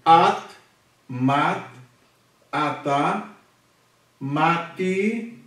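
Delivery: each word read apart, clear; reading Hebrew words. Shown as a demonstration. Teacher reads the new Hebrew words aloud, clear. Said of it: "reads joined tav words".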